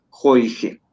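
"joige" with vowels opened to O and E. Shown as a demonstration. Teacher modelling the word for money, open-vowelled "joige". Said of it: "se pronuncia como jo".

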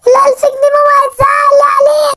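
put-on a kid frightened his mother will be upset; panicked child. Simba finding the money gone, panicked child.

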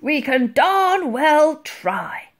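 loud, slow, high-pitched resolve; determined old admiral. A narrator's reading. Admiral answers the girl during the chase, defiant. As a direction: draw it out boldly like a commander.

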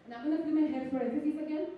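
sassy mock Latina accent; put-on Latina accent. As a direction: flaunt the fake Latina accent for emphasis. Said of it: "nobody talks like that".

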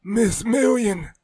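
high, loud, slow holler. Acted. Blight bursting in, a high loud holler of her name. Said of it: "Blight hollered".

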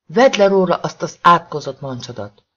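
loud, strained scream at her husband. Acted. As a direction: scream it at him with everything.

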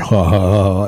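loud imitated ha-ha laugh; mock group laugh. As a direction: imitate coworkers laughing loudly at a joke. Acted laugh after leader's joke.

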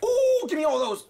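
high, loud greedy shout; excited yelling. Real, not acted. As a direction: yell it, grabbing everything. Grabbing loot, yelling.

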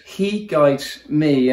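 "He" held and lifted, "guides me" drawn out slowly; slowly, weight on "He"; stress on he. Shown as a demonstration. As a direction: point to the Lord: "He" guides me. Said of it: "the he in the beginning of verse three".

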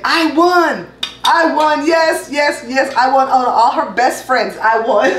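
slow, gleeful I won; gleeful victory cry. Real, not acted. Boasting about winning the game.

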